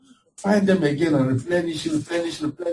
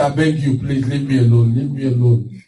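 begging; 4 semitones lower than usual. Shown as a demonstration. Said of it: "Don't beg it".

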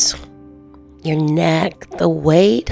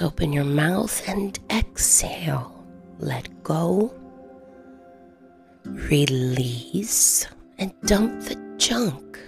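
whispering; 9 dB quieter than usual. Acted. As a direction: let it trail out in a whisper. Whispered exhale cue.

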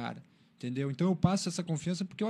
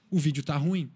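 mildly blunt imitation of a father; quoting a no-nonsense critic; curt and blunt; 4 dB louder than usual. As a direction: deliver a short, matter-of-fact verdict. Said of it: "ele foi curto e grosso".

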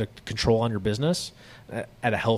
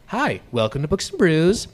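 canned server greeting; 3 semitones higher than usual. Retold or imitated. Server greeting guests with a lightly mocked script. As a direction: read it like a rote welcome. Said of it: "I guarantee you're not gonna do that with".

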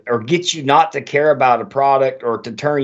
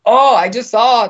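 high, loud mock Spanish accent, broken off at once; a quick Spanish-accent impression cut short; 8 semitones higher, 6 dB louder than usual. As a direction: start a stereotyped Spanish accent then bail. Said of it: "I don't wanna do a Spanish accent".

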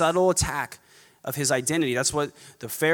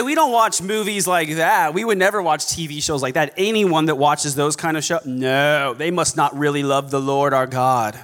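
mock-appalled church snob; snobby legalist; 3 dB louder than usual. False teacher judging movie watchers, snobby. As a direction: pass judgement with hammed-up disapproval. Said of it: "incredibly snobby and legalistic".

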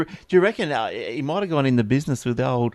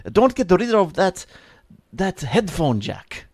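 bad Russian accent; 2 semitones higher, slower than usual. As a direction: ham up a clumsy Russian accent. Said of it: "Sound Russian, doesn't it?".

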